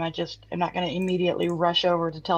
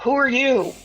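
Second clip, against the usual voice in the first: higher, louder goblin demand; brash goblin; 4 semitones higher, 6 dB louder than usual. Acted. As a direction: bark the question back like a pushy goblin. Goblin confronting goblin.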